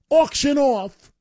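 high, slow and drawn out; mock excited. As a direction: stretch it like a gushing announcer.

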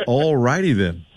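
lightly imitated catchphrase; the host. Shown as a demonstration. Host showing Rob how to say it, light impression. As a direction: stretch the opening word a touch, light impression.

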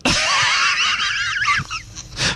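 long high-pitched laugh. Real, not acted. Host laughs at taffy joke.

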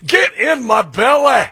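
loud, slow, high mock Scottish bellow; Fat Bastard. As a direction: ham up a Scottish movie villain's greedy roar. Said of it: "everybody could say".

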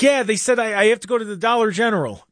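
high, anxious insistence; imitating mom's worried voice. Son voices mom insisting she must go. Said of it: "She's like".

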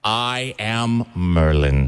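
a mock-heroic Merlin pulling the sword. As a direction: proclaim it like a hammed-up Merlin. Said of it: "like the sword in the stone".

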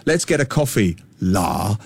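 lightly put-on Singlish, dropping low on "la"; mocking Singlish accent. Expat teachers in a coffee shop making fun, mock Singlish accent. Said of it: "they start mocking the Singlish accent".

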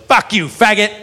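put-on drunk woman's insult. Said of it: "she says the worst thing ever".

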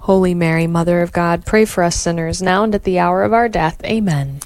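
steady devout rosary response; prayer recitation. Acted.

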